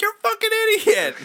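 high insulting yell; shouting. Retold or imitated. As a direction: yell it from the car. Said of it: "rolled my window down like".

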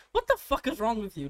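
retold irritated outburst; annoyed retort. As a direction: act out being irked at someone. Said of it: "I get annoyed at it".

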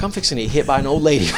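quick line breaking into laughter; laughing. Real, not acted. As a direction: rush it out amused, laugh taking over. Laughs at his own predicament.

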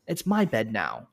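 mock kid insisting it's his bed now; headstrong kid voice. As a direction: play the stubborn four-year-old. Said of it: "And it's like".

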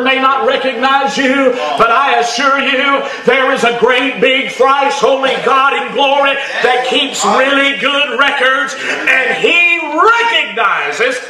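high, shouted fiery preaching; preaching at full force. Acted. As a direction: thunder it from the pulpit.

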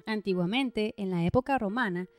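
steady, projected voice-over for a paranormal countdown; scripted documentary narration. A narrator's reading. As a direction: narrate an eerie top-list like a rehearsed script. (narración de documental de misterio, leída y proyectada)

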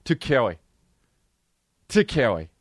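put-on babyish, mangled "To Kelly"; mock little kid. Kid tells mom why he won't go, babyish. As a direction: refuse like a scared small child. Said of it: "If I was a kid".

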